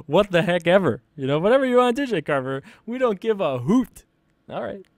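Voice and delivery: squeaky nerd bit. Pretend. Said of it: "Ooh, that was the wrong voice".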